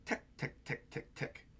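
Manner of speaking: ticking sound effect fading to a whisper; soft ticking. Retold or imitated. Sound effect read softly.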